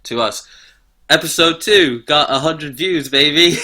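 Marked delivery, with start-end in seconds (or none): 1.1-3.6 excited. Real, not acted. Bragging about view count.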